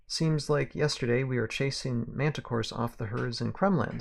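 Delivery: lightly Southern western gunslinger; Southern accent. Acted. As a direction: speak with a touch of Southern twang. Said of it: "I can do the accent".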